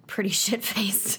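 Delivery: laughing through the words. Real, not acted. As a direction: giggle it out.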